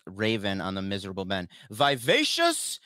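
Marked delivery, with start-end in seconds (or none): 1.7-2.8 slow, savoring word. Shown as a demonstration.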